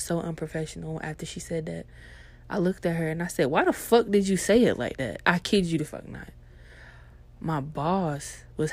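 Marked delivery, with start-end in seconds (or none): 3.5-5.2 loud, incredulous comeback; retold disbelief. Mail clerk challenges flirty customer's delivery, loud disbelief. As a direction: call out the odd delivery, a bit louder.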